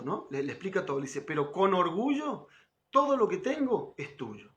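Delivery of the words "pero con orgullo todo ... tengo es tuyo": heartfelt quote. Retold or imitated. Speaker quoting the song's promise to the girl, slow and heartfelt. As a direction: give the lover's words with devotion.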